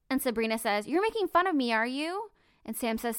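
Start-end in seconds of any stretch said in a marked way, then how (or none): 0.9-2.3 accusing shout. Retold or imitated. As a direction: snap the accusation at her, voice pitched up. Sabrina accusing Sophie, read aloud.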